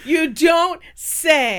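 sarcastic. Acted. Sarcastic response, slow.

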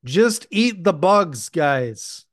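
high, loud, drawn-out mock urging; mocking cheer. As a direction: push it slowly and loudly, mock-earnest. Mocking the eat-bugs push.

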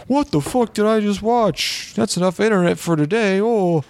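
baffled internet commenter; stunned commenter. Retold or imitated. Mocking Reddit commenter quote.

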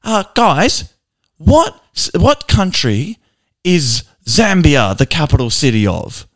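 high, halting mock announcement to the whole barbershop; announcing to the shop. Barber asks the whole shop a question, mock announcing. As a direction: call the question out to the room, slowly. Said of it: "he announces to the barbershop".

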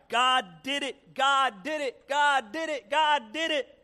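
high, loud insistent chant; acted stubborn praise refrain; unfazed. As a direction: keep repeating it, rising, undeterred. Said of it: "Unfazed, she replied".

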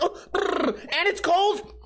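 shivering. Pretend. Imagined cold water shock.

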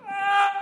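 loud high cartoon yelp of panic; cartoon scream. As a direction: yelp like a cartoon character falling.

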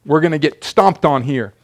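lightly hammed-up alarm; freaking out. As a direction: playfully act the servant's panic. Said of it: "his servant starts freaking out".

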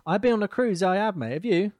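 high, loud mock Scottish accent; hammed-up Scottish voice. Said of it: "Your Scottish accent's way better".

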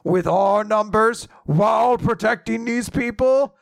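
hammy giant's threat; giant villain. Retold or imitated. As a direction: declaim it like a pompous giant, rising to the end. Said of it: "the giant's just like".

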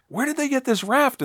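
high incredulous squawk; hammed-up high puzzled voice; mock baffled question. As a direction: ask it in comic disbelief. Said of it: "I'm like".

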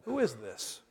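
whisper-quiet confusion; baffled under breath. Retold or imitated. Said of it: "And you're like".

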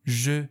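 "ژ" as French je, with rounded eu after it; French vowel sound. Shown as a demonstration. Teacher giving an example of e, French-style "ژ".

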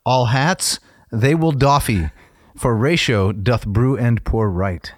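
slow, sing-song limerick recital; bouncy limerick lilt. Acted. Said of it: "Okay, here it goes".

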